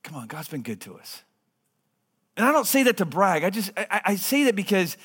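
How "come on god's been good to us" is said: retold whisper. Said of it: "she whispered in my ear".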